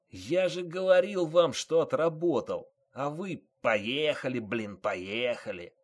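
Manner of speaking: high, loud aggrieved complaint, slowing at the end; wounded yelling. A narrator's reading. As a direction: yell reproaches as an injured man. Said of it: "орал раненый водитель".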